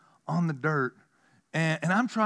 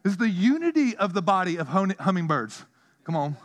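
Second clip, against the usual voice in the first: mock protest; 5 semitones higher, 3 dB louder than usual. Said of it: "I'm like".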